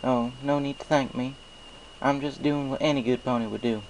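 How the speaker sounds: folksy farm pony, friendly and sure; Applejack. Acted. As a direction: play a cheerful country mare with a twang. Applejack's voice in story.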